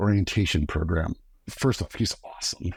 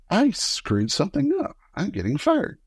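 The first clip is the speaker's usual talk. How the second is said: much higher, rising panicked voice; mock panic; 11 semitones higher than usual. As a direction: squeak it out in rising alarm. Panicked thought when summoned.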